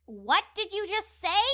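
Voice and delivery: glaring. Acted. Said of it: "she glared".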